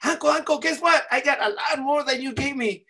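put-on high, eager kid calling uncle; excited child bragging. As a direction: burst in with big news, high. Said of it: "I went running to my uncle".

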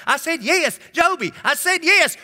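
high-pitched, frantic country-grandma outburst; losing her mind. Retold or imitated. Grandma losing her mind at the operator, high exasperated imitation. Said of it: "she would lose her mind".

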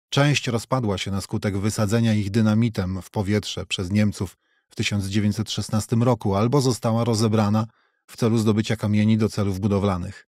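plain reading voice

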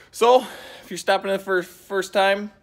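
words tripping over each other; fumbled line. Real, not acted. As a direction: stumble through the line. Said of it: "oh, I messed that all up".

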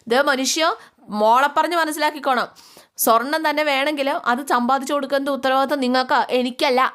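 mother rants at husband about gold; raging at husband. Acted. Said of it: "ഉറഞ്ഞു തുള്ളു".

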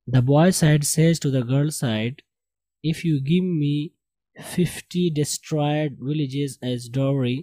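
slow, measured read-aloud; model reading. Shown as a demonstration. Teacher reads story to class, slow model reading. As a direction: read it out slowly for learners.

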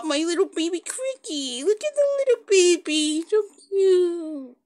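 high, doting squeal building up. Real, not acted. Doting on baby Cricky and Blossom Paw, cooing.

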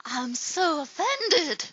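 slow drawn-out offended line; mock offended. A first take of a mock offended line. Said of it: "I did that better than you".

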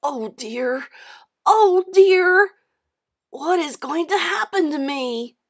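rising to a high, loud lament; fretful wail, peaking then easing slightly; miserable. A narrator's reading. John fearing what will happen to him, miserable. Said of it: "he asked himself miserably".

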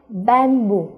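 "bamboo" with the second b clearly voiced; "bamboo", b not silent; b sounded. Shown as a demonstration. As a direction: pronounce the b in the middle of "bamboo". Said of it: "âm bờ đây thì là không câm".

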